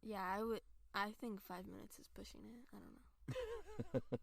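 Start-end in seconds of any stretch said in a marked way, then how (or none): 2.7-4.2 drawn-out doubtful. Real, not acted. Teasing doubt.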